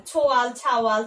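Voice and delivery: "ছোয়াল" e "ছাওয়াল" detti come forme dialettali di ছেলে; regional word forms. Shown as a demonstration. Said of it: "এখানে দেখো একটা ছেলে শব্দ দেয়া আছে".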